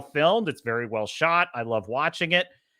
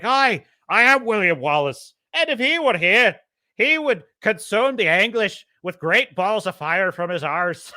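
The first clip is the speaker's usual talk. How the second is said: high, loud, hammed-up Scottish hero; mock Wallace; 5 semitones higher, 4 dB louder than usual. Wallace joking to his doubting troops, hammed-up. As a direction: ham up the rebel leader's jest. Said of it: "And he's like".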